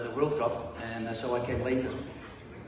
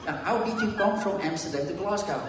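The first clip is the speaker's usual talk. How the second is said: higher, more spelled-out mock-Glaswegian question; imitated Glaswegian accent, repeated; 5 semitones higher than usual. Teammate repeating himself for baffled newcomer, deliberate imitated Glaswegian accent. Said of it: "this is the Glaswegian accent".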